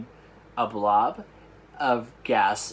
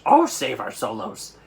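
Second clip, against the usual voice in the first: furious anguish; 4 dB louder than usual. Acted. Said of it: "filled with fury and anguish".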